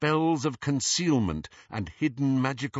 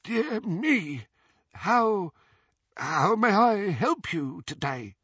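flustered goblin voice; 10 semitones higher, slower than usual. Acted. Flustered goblin offers help.

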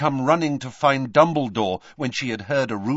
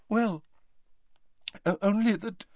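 flustered startle; 11 semitones higher than usual. A narrator's reading. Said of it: "looking startled".

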